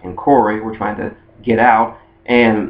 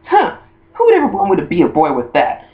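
high, scoffing imitation of an indignant girl; vehement denial; 8 semitones higher than usual. Misty and May denying a crush, mock vehement scoff. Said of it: "they would vehemently deny it".

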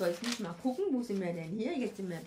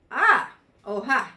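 mock surprise; 2 semitones higher, 14 dB louder than usual. Shown as a demonstration. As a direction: fake a startled oh when jealousy shows up. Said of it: "schau ihr in die Augen und sage".

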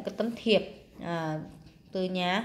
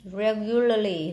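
"Regularly" with weight on "Reg"; first-syllable stress; slower than usual. Shown as a demonstration. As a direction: slowly sound out "Regularly", leaning on "Reg". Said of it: "là nhấn âm một".

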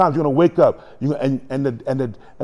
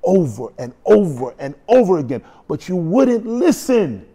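pleading reproach. Retold or imitated. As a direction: imitate an anguished reminder, rising. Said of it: "he reminded the person".

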